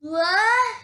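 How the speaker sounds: startled what. Acted. Toad startled awake.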